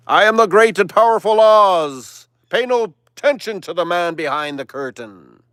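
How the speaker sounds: high, loud, grand wizard announcement; booming Oz voice. Retold or imitated. The wizard addressing Dorothy, mock booming. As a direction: boom it out like the great Oz.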